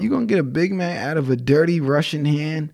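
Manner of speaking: leicht russischer Akzent, gespielt; Russian accent. Pretend. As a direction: schlechter russischer Akzent im Spaß. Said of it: "And my Russian accent is terrible".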